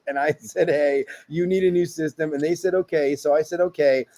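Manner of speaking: run-on, evenly pitched reading; deadpan reading as one endless sentence; no punctuation. Shown as a demonstration. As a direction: read straight through without sentence breaks. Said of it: "read it with no punctuation".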